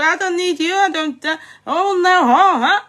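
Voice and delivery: lightly voiced mock of the girl's rant; a hint of the girl's shouty brag; mocking quote. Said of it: "kíní kan tó fún ní ṣòpé".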